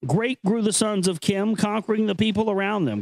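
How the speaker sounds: measured, grave reading of an ancient text; solemn recitation. Acted. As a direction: read it like sacred scripture, unhurried. Reads ancient text aloud.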